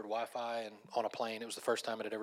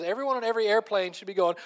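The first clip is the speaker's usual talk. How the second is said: high, loud retold rant; exasperated comedian; 9 semitones higher, 11 dB louder than usual. Comedian lecturing every airplane passenger, loudly exasperated. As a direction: shout it as a comic tirade.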